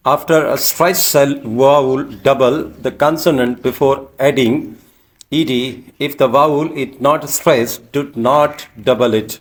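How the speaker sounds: slow, deliberate dictation pace; slow rule reading. Shown as a demonstration. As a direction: spell out the rule slowly for the class. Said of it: "teacher reading rule slowly".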